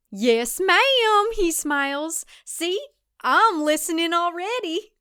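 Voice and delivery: high, excited, rambling suitor; hopeless romantic, pleading; eager dorky guy. Acted. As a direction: babble it all out in one breath. Matthew's voice again.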